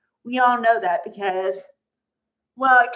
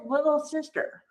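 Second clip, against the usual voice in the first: mock cutting Brooke; 2 semitones higher, 5 dB quieter than usual. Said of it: "the way she says it and the intonation".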